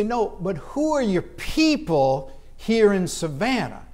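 slow, lightly voiced insistent local; a hint of an old local, drawn out; old Savannian. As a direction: spell it out slowly, like an old-timer pressing a newcomer. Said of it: "old Savannians asking me these questions".

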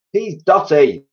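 high, loud alarmed exclamation; crying out. A narrator's reading. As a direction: call it out in disbelief. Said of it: "they cried".

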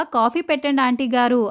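lightly voiced shout to be heard in another room; calling out loudly. Farm boy calls to the auntie for coffee, mild mock shout. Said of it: "అని అరిచాడు".

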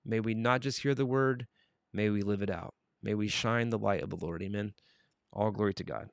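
soft, measured prayer voice; closing prayer. Acted. Host closing in prayer for his viewers, prayerful. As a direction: pray it quietly over the listeners.

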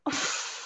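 short breathy sigh; soft huff of breath. Acted. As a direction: let out a quick voiceless sigh. Reacts at first to boss's task.

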